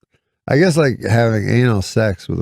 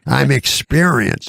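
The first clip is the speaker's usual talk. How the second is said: slow, slightly raised old-man impression; Mickey Rooney; 4 semitones higher, slower than usual. Old star correcting the word old, imitated slow declaring. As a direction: lightly mimic an old man's proud declaring. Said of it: "so he talks super loud".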